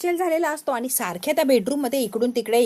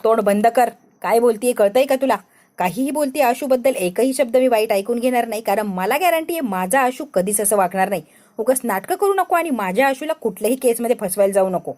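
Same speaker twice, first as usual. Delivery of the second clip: loud, furious scolding in defence of her husband; wife loudly defending her husband against a friend, furious; 4 dB louder than usual. Acted. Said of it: "असली रंगावर आलेली असते आपली शिवा".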